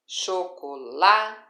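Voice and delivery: "chocolate" very slow, loud LA set apart; choco... LA... te, punching LA in "chocolate"; teacher isolating the strong LA in "chocolate"; stress on next-to-last syllable. Shown as a demonstration. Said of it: "tem como sílaba tônica a penúltima".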